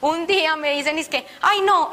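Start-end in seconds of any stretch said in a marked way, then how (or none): 1.4-1.9 retold exclamation. Quoting someone's reaction.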